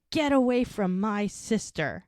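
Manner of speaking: slow, mildly heated mock warning. Angry brother warning off his sister's boyfriend, mildly acted. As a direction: retell a brother's furious order, lightly. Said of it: "he has never raised his voice like this before".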